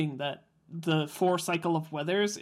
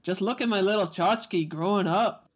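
put-on Jewish accent; 2 semitones higher than usual. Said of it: "Just say it in a Jewish accent".

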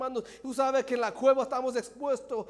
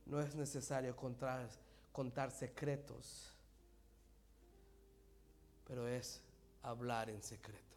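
near-whisper sermon, breathy and soft; hushed whisper preaching; 13 semitones lower, 18 dB quieter than usual. Acted. Preacher showing God's whisper, hushed throughout. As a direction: preach as if telling a secret.

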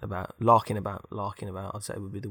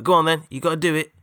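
eager goading; 6 semitones higher, 5 dB louder than usual. Acted. Robot goading his mate.

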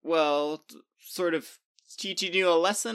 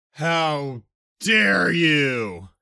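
drawn-out furious roar, higher and louder; 5 semitones higher, 8 dB louder, much slower than usual. A narrator's reading. Jupiter roars at Bacchus, drawn out and loud. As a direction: roar it across space. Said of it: "Jupiter roared".

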